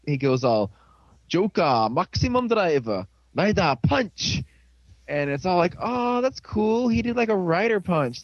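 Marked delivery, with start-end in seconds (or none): 1.3-4.4 announced like a hero's finishing move, last word drawn out; imitated attack call. Hero announcing his finisher to the enemy, mock-heroic call. 5.8-8.2 higher-pitched fan excitement; mock impressed. Onlooker reacting to the rider punch, imitated excitement.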